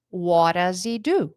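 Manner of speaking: What does he do? run together, linked; connected speech. Shown as a demonstration. Teacher contrasting with the slow form. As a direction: blend What does he do? into one flow. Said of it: "vai sair".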